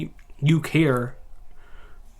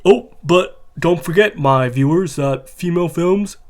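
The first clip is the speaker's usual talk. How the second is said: mocking; 4 dB louder, slower than usual. Mock voice of the YouTuber.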